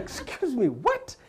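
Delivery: high, rising puzzled English voice; confused Englishman. Retold or imitated. Hotel clerk puzzled by the Nigerian guest, confused English voice. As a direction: play the baffled hotel clerk.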